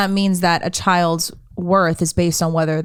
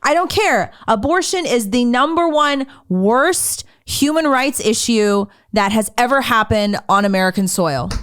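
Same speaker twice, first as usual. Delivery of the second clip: mock preachy quote; 5 semitones higher than usual. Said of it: "with a straight face".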